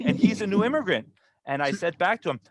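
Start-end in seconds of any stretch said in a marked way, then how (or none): 0.0-1.1 raised pitch, making the point; retold pointed jab. Vendor points at the immigrant to shame the customer, pointed. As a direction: imitate a vendor scoring a point.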